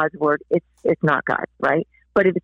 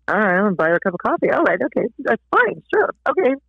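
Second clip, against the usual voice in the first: acted grudging okay; reluctant agreement; faster than usual. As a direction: talk yourself into it, rising as you go. Acting her reluctant giving in.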